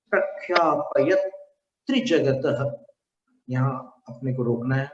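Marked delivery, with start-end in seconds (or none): 0.1-2.9 त्रिजगतः released as 'trijagata-ha', after a slow प्रख्यापयत; careful recitation, pausing before त्रिजगतः; voiced-out visarga. Shown as a demonstration. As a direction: let त्रिजगतः end in a breath 'ha'. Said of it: "विसर्ग में विसर्जन करना है".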